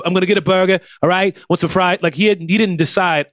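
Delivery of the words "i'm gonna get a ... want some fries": put-on lightly done Boston accent; Boston burger-order accent, higher than usual. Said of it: "I'm gonna do the Boston accent".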